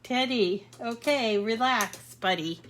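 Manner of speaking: soothing the dog. Real, not acted. Calming the dog with squeaky toy.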